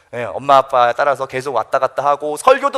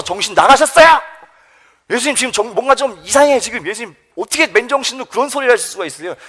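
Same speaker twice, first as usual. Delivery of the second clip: defiant confrontation; 5 semitones higher than usual. Acted. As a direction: act out a disciple telling off the teacher. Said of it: "막 대들면서 이런 식으로 말하는 거죠". (막 대들면서 따지듯 높은 목소리로)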